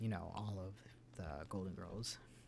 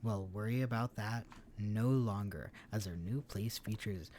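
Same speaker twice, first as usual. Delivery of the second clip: cheesy announcer voice; 5 dB louder than usual. Acted. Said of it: "cheesiest announcer voice".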